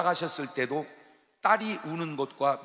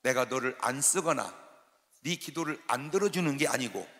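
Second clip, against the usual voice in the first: lightly voiced God, quieter and measured; God's reply; 2 semitones lower, 5 dB quieter than usual. God explains to the complaining preacher, understated calm reply. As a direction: answer the protest in a calm, lowered voice. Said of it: "하나님이 금방 말씀해 주는 거예요".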